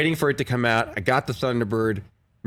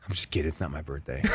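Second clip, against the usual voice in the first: hint of Christopher Walken; 11 semitones lower, 8 dB quieter, faster than usual. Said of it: "He's like".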